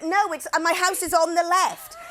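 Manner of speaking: comically frazzled protest; retold addled speech. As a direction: fumble the words as if talked out. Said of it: "lost the use of my head and the ability to speak".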